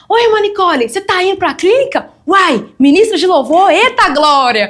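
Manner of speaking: chirpy, sing-song hello to the sister; cheery church greeting. Retold or imitated. Church members greeting sister Nicole on her way, in a mock-cheery high voice.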